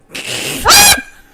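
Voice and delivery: high, loud burst of laughter; loud cackle. Real, not acted. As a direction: crack up with a shrieking laugh. Cracks up at own joke.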